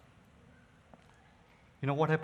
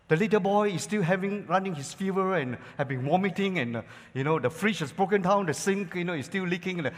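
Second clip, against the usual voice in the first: a touch of a ranting wife, louder; exasperated wife; 2 semitones higher, 3 dB louder than usual. Retold or imitated. Wife scolding husband who came home drunk, exasperated. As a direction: pile on the complaints. Wife's complaining rant voiced.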